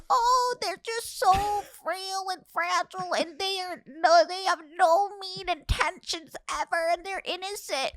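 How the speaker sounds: high, sing-song mock sweetness; mocking old-people cliché. Girlfriend mocking how people see the elderly, high sing-song voice. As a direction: mimic the naive view of old folks. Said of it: "perception that old people are just".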